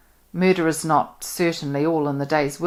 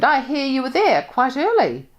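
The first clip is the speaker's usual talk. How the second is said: early leaned on, higher and louder, probing; stress on early; 10 semitones higher, 6 dB louder than usual. A narrator's reading. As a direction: press hard on early, a pointed question. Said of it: "she stressed the word early".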